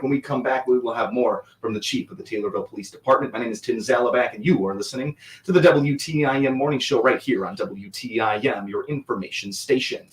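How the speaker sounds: normal talking voice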